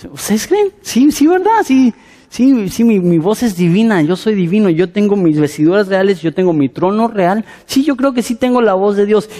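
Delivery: a vain king swallowing the praise. Retold or imitated. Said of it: "Se la empieza a creer". (rey vanidoso, agudo y presumido)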